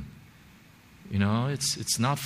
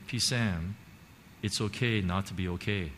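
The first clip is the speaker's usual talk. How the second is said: softer, quietly caring; gentle concern; 3 semitones lower, 4 dB quieter than usual. Retold or imitated. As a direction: say it gently to a struggling friend. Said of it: "look at me with concern".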